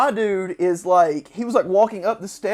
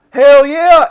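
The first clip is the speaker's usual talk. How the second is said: higher, loud hell yeah; enthusiastic shout; 7 semitones higher, 16 dB louder than usual. Retold or imitated. Game overseer cheering the bomb plan, loud shout. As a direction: holler it like a rowdy veteran. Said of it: "He goes".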